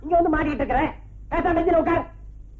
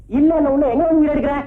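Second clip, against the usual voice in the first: louder, annoyed telling-off; irritated scolding; 5 dB louder than usual. Acted. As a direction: snap at the pestering man. Irritated policeman scolds complainant. (எரிச்சலுடன் சத்தமாக திட்டுதல்)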